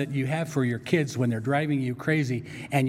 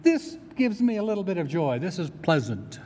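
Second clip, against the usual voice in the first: higher, lightly put-on pleased voice; mock pleased; 3 semitones higher than usual. Preacher voices what people really mean, mildly pleased. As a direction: act out casual, shallow delight. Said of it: "what we're really saying is".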